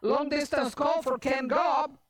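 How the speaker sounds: lightly voiced operator announcement. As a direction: announce the call in one continuous run. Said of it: "And so the lady's like".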